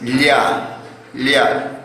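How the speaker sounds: "ya" with a palatal l, like lya; "ya" begun with a clear ly sound; correct lla. Shown as a demonstration. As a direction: model "ya" as lla for learners. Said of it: "La correcta pronunciación sería ya".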